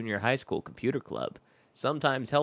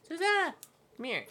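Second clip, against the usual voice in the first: yawning mid-word; stretched, sleepy yawn; talking through a yawn; 4 dB quieter, much faster than usual. Real, not acted. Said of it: "sorry I'm yawning so much".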